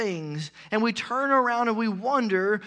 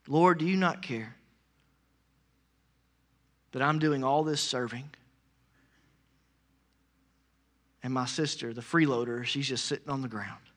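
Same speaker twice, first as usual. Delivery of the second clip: with an attitude; 5 semitones lower, 3 dB quieter than usual. Acted. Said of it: "probably with an attitude".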